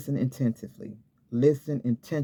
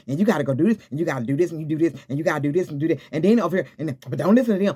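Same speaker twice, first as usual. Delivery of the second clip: pushy rapid orders; 3 semitones higher, 3 dB louder, much faster than usual. Retold or imitated. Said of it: "he didn't go into say".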